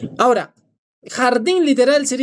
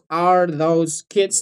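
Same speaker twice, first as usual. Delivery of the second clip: slow demo; 2 semitones lower, much slower than usual. Shown as a demonstration. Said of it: "no sería tanto".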